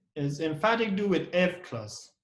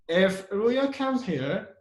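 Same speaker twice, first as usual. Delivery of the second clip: very slow, weighted "If", rising to "here"; stress on IF; 3 semitones higher, much slower than usual. Shown as a demonstration. Teacher's example about Ruya, slow stressed "If". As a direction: draw out the condition from a strong "If". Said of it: "you put a stress on, on if here".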